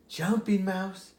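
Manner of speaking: slow, a hint of a gravelly old frog calling; lightly voiced gravelly frog. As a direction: call his name slowly like a gruff frog. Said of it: "he heard a gravely voice say".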